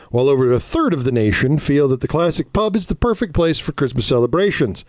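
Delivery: light holiday advert read. Acted. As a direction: read it like a radio ad. Reads a pub ad.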